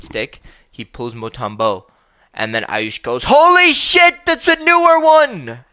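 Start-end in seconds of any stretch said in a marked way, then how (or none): 3.2-5.6 much higher, slow, stretched-out amazement; even more excited. Retold or imitated. Ayush amazed at the rare goalie card, high slow excited voice. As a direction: draw it out in stunned delight.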